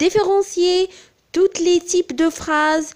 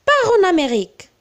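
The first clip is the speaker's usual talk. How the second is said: commanding, higher and louder, fast; firm order; 5 semitones higher, 3 dB louder, faster than usual. Shown as a demonstration. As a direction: bark it as a command. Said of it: "c'est un ordre".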